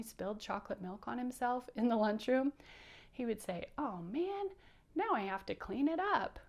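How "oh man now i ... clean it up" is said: higher, mild puppet grumble; lightly voiced bummed-out bug; mildly upset. Bouncer spilled milk at lunch, mildly put out. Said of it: "even if he does get upset".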